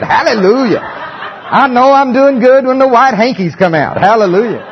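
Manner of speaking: real laughter breaking into the words; laughing through it. Real, not acted. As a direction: chuckle at his own act while talking. Laughing after his preacher impression.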